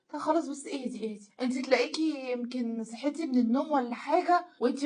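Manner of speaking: lightly acted calming down; mildly soothing husband. Husband calming wife after she wakes, mildly soothing.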